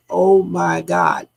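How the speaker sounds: slow, stretched OH MY GOD; drawn-out exclamation. Retold or imitated. Recounting what was heard in the audio, drawn out. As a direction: draw out each word of the exclamation. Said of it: "the way they say".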